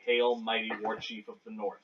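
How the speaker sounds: loud, proud formal greeting; formal salute. Shown as a demonstration. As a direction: chest out, hail the chief. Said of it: "slap your right fist to your left chest and say".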